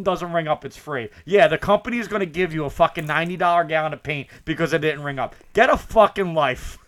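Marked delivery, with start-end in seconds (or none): 5.5-6.8 exasperated rant. Real, not acted. Venting at retail customers.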